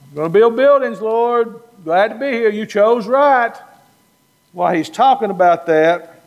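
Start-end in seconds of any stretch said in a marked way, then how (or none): 0.1-3.5 yapping Peter. Retold or imitated. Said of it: "Peter's still yapping".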